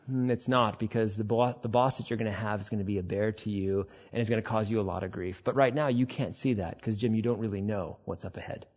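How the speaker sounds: understated, knowing correction from above; God replying. Acted. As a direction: let the volume drop into a measured reply. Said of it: "what if God's like".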